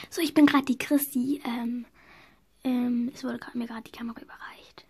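soft whispered commentary. Real, not acted. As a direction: whisper so you don't disturb the moment. Camerawoman explains quietly. (flüstert leise in die Kamera)

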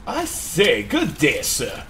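lightly put-on old-timey English accent, a hint of pomp; mock posh English. Gamer greets an enemy in mock old-timey English accent. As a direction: play a knight in old-timey English, barely. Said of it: "gonna get the accent right".

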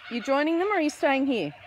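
high, sing-song voice coaxing a bird; pet talk. Acted. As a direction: coax the little bird over, sweet and high. Offering food to bird.

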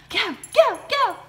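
high loud go go; excited cheer. Real, not acted. Owner cheering her dogs as they run. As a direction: cheer them on.

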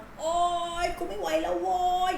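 high, desperate yell at the world; shouting from a cliff. Acted. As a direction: cry out that you can't take it anymore. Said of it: "ขึ้นไปยืนบนหน้าผาแล้วก็ตะโกน". (ตะโกนสุดเสียงอย่างหมดแรง)

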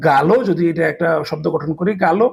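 গালো said as Portuguese "galo" with a hard g; Portuguese pronunciation. Shown as a demonstration. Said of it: "দেখেন গা". (Portuguese উচ্চারণে গালো)

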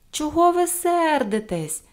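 put-on high, drawn-out childlike reproach; reproachful question. A narrator's reading. Pippi to the angry policemen, reproachful question. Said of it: "докірливо спитала Пепі".

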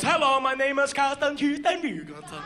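singsong mock Norwegian accent; hammed-up Norwegian accent announcement; Norwegian captain. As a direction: do a comic Norwegian captain on the intercom. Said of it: "the captain is a Norwegian gentleman".

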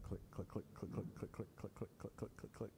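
hoof clicks. Retold or imitated. Donkey walking again.

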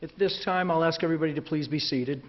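hoarse from a cold; husky, cold-roughened voice; raspy voice. Real, not acted. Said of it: "pardon me for the raspy voice".

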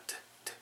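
"트" as a soft, voiceless release of t; light final t. Shown as a demonstration. Teacher showing how bored ends, light voiceless t. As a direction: let "트" out as a tiny puff of t. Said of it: "이러면서 끝나는 거죠".

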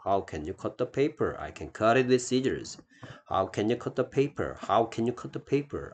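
very slow, word by word; 천천히 또박또박 읽어 주기; slow model reading. Shown as a demonstration. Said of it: "teacher models dialogue lines". (아주 느린 시범 읽기)

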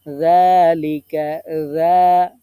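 যালিকা with a soft, gentle যা, said slowly and loud; soft dhal demo. Shown as a demonstration. Teacher demonstrates a soft যা sound, loud and slow. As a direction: ease into a soft যা. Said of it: "জাল নরম করতে হবে".

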